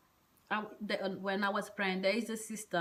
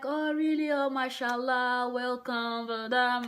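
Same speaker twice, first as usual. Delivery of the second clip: higher-pitched, gushing retold greeting; delighted welcome; 3 semitones higher than usual. Receptionist greets a first-time visitor at the mosque, delighted welcome. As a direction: imitate an overjoyed, welcoming sister.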